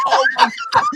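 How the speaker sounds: high, squealing mock scream through a laugh; mom's laughing scream. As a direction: squeal it like a shocked mum, laughing. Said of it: "she screamed in the car".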